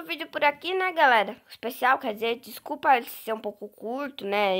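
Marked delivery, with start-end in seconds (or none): 1.5-4.6 talking while eating popcorn; words around a mouthful of popcorn; mouth full. Real, not acted. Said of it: "Eu comendo pipoca aqui". (de boca cheia)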